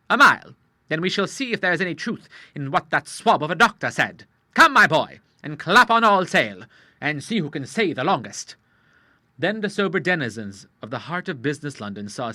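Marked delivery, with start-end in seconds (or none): 0.1-8.6 louder, hearty sea-dog dare; eager challenge. A narrator's reading. The Admiral daring Charles to race, a hearty mild shout. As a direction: rouse the boy to run.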